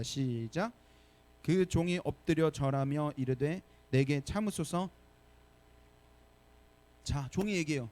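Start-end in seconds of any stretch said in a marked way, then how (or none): 1.4-4.9 slow, deliberate verse reading; scripture reading. Shown as a demonstration. Pastor reading the verse with the church, slow. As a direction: read it aloud together, steadily. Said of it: "한 목소리 우리 한번 읽어보겠습니다".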